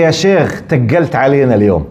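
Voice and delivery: Jordanian Arabic complaint. Retold or imitated. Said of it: "In our accent, he say".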